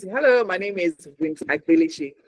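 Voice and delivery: "Hello" lifted, then "Winfrey Agbeleche" clearly set out; changed tone. Shown as a demonstration. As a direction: introduce "Winfrey Agbeleche" as the key words. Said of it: "The tone and the voice changes".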